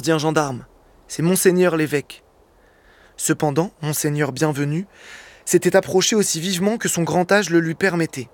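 measured, deliberate storytelling read; literary reading aloud. Acted. Guest reading a Hugo extract on air, measured narration. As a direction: read the classic novel steadily to the radio audience.

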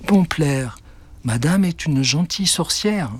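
reassuring. Acted. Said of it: "tenta de le rassurer".

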